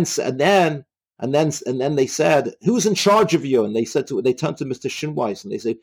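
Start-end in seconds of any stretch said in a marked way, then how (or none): 2.6-3.6 higher-pitched, mildly threatening question; a touch of fury, pitched up; retold furious demand. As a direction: imitate an angry guard demanding an answer. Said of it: "getting even more furious and threatening them".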